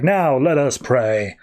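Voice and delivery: slow, solemn little priest line; mock solemn priest. Priest to his congregation after the killing, a slow mock-solemn invitation. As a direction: intone it calmly, as if nothing happened.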